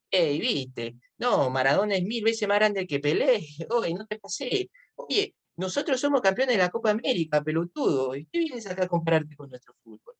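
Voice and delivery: put-on lightly done Argentine accent; mild mock Argentine fan in an Argentine accent. Teacher imitates an Argentine fan arguing football, light Argentine accent. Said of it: "el dejo argentino también es muy notorio".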